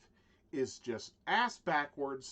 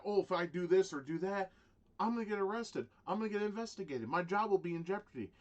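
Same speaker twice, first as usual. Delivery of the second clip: higher-pitched imitation of fretting; mock worry; 5 semitones higher than usual. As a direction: fret in a raised, put-on voice. Voices worried officers' thoughts.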